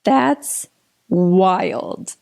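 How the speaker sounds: slow, drawn-out wonder; slow, incredulous retelling; retold disbelief. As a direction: stretch it out as a private reaction. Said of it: "where I'm like".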